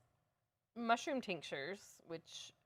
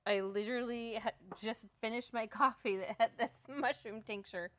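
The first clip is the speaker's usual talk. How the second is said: surprised; 3 semitones higher, 5 dB louder than usual. Retold or imitated. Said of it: "And I realized".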